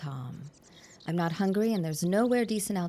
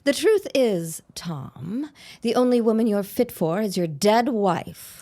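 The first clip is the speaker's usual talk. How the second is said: cutting insult; 6 dB louder than usual. Acted. Helen insults Tom cruelly.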